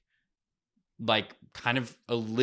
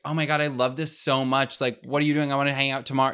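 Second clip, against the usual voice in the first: higher, lightly gushing imitation; mock over-eagerness; 4 semitones higher, 4 dB louder than usual. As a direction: imitate someone far too into a date. Mock over-eager person dating.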